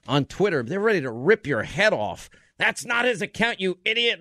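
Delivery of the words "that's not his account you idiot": higher-pitched mimicked scolding; mock indignation. Host mimicking Twitter users ready to rip his head off, mock indignation. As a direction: imitate an indignant online heckler.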